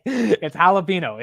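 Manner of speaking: laughing as he says "jalapeno" slowly; half-laughing, drawn out; chuckling through "jalapeno". Real, not acted. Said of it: "how do you say jalapeno".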